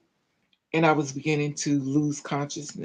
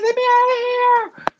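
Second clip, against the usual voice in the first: high-pitched, loud reenacted scream; full-voiced retold scream; screaming and hollering; 7 dB louder, much faster than usual. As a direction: holler to be let loose, pitch way up. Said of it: "I'm screaming and hollering".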